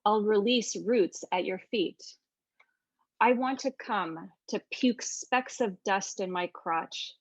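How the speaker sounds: slow, measured poem reading; poetry reading. Shown as a demonstration. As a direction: read the poem slowly, weighing each line. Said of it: "and then my translation".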